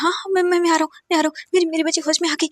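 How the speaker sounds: high, loud stammering joy; can barely get the words out for joy; father stammering with relief; overjoyed father. A narrator's reading. Father hears daughter woke.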